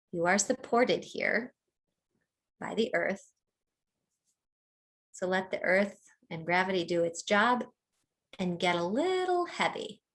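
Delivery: unhurried meditation guide with long pauses; calm mindfulness-teacher delivery, phrase by phrase; guided body scan. Real, not acted. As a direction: lead them gently through a body scan, leaving space between phrases.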